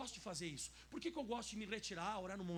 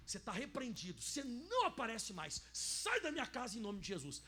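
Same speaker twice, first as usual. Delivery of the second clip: rebuking a demon; 2 semitones higher, 6 dB louder than usual. Shown as a demonstration. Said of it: "A senhora chega e diz assim".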